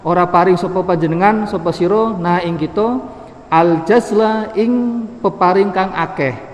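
traditional Javanese-Arabic study reading; kitab gloss reading. Acted. Reads Arabic text with Javanese gloss.

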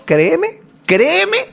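emphatic pleading. Real, not acted. Emphatic vow among friends.

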